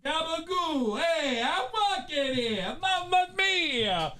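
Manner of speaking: high, drawn-out mock Italian; hammed-up Italian accent. Streamer warming up for a mafia romance, hammed-up Italian accent. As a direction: ham up an exaggerated Italian accent. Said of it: "Italian accent".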